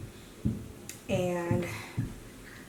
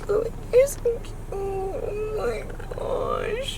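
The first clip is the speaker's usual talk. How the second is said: crying with joy; slower than usual. Real, not acted. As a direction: let the tears take the words. Crying over flowers.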